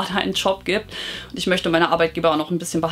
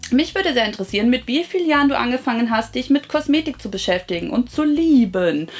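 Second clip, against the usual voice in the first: reading out a viewer question; 3 semitones higher than usual. Acted. Vlogger reads a viewer's question about cosmetics, read-out voice.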